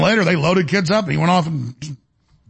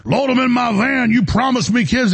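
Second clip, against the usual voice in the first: higher and slowed, a whiny put-on; mock creepy demand; 7 semitones higher than usual. Guest mimics the man demanding kids from the undercover cop, higher and slow. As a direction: play the creep whining to be given kids. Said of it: "And he's like".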